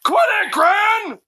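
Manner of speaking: alarmed shout. Real, not acted. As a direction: yell to make her stop. Child stops granny tearing book.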